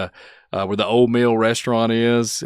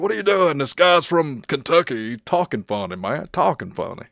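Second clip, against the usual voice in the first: mocking onlookers; 5 semitones higher than usual. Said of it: "They're like".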